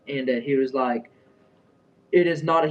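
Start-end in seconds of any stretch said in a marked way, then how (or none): 2.1-2.7 put-on raised voice in rough Indian accent; mock an Indian-accented manager scolding; hint of Indian accent, louder and higher; imitated Indian accent. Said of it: "like, an accent".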